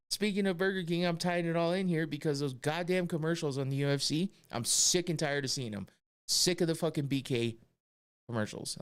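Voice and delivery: mildly heated comic tirade; exasperated rant. Real, not acted. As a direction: rant it out, sick and tired. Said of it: "Now I'm just ranting".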